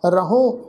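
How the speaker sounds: ਰਹੂੰ with a nasal final ੂੰ, rahoon through the nose; nasal pronunciation. Shown as a demonstration. Teacher demonstrates nasal ਰਹੂੰ for the sangat, nasal ending. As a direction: end ਰਹੂੰ on a nasal vowel. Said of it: "ਨਾਸਕੀ tone ਵਿੱਚ".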